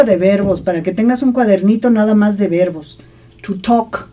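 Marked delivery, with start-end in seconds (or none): 3.4-4.1 "To talk" with no L sound in "talk"; silent L. Shown as a demonstration. Teacher modelling a verb for students, "talk" with silent L. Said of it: "No pronuncias la L".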